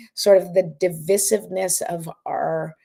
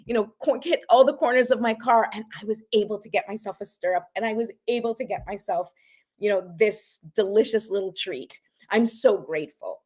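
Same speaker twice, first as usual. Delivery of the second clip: super excited; 3 semitones higher than usual. Pretend. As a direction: burst with joy, then calm down. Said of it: "super super excited".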